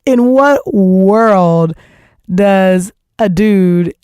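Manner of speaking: very slow, each word weighed; incredulous, drawn out. Real, not acted. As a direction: stretch it out in disbelief. Outraged rhetorical question.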